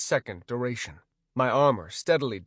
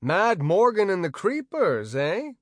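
affable; 7 semitones higher, 4 dB louder than usual. Acted. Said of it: "I said affably".

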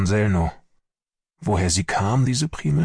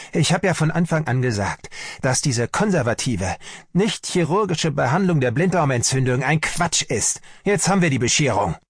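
higher-pitched, exasperated rant; shouted I-told-you-so; 6 semitones higher than usual. A narrator's reading. Army doctor blames the conservative treatment, shouted reproach. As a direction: rail at the wrong treatment. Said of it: "schrie Sellnow".

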